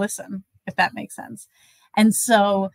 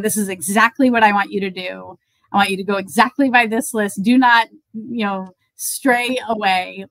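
imitating a firm instruction, louder and slowing at the end; firm insistence; 3 dB louder than usual. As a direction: lay down the rule emphatically, drawing out the final words. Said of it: "she really cares about".

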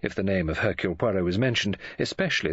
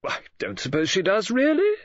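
soothing woman friend, higher-pitched; 12 semitones higher, 4 dB louder than usual. A narrator's reading. Woman friend reassures the offended detective, soothing. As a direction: gently play it down, voice lifting at the end. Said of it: "said Missus Oliver soothingly".

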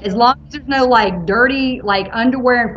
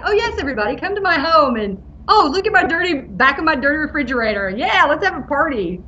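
sarcastic; 5 semitones higher than usual. Retold or imitated.

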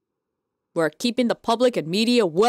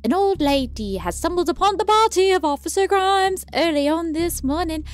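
news reporter voice; 4 semitones higher than usual. Acted. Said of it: "Gotta get the news reporter voice".

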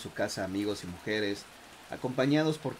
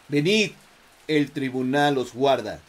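false fold growl; 2 semitones higher, 8 dB louder than usual. Acted. Dead soldier orders prisoner.

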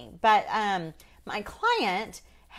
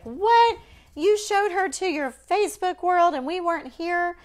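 much higher and louder, hammed-up indignant protest; mock outraged family; 11 semitones higher, 5 dB louder than usual. Mother imitating her family's mock outrage at being left out. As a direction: play the family left out and offended. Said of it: "They would be like".

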